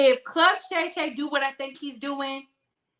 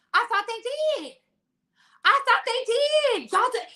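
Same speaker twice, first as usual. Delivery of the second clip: shocked disbelief; 9 semitones higher than usual. Real, not acted. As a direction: gasp it out like you can't believe it. Shocked disbelief, high pitch.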